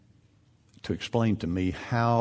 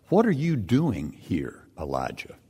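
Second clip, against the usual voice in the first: voice of God. Acted. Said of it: "The word of the Lord came to him".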